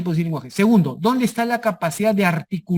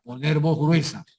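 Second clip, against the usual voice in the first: thick voice demo; 4 semitones lower than usual. Shown as a demonstration. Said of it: "la capacidad de modificar la entonación".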